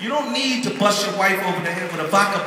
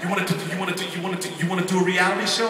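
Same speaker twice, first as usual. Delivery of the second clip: mock stutter; much faster than usual. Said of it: "He's stuttering".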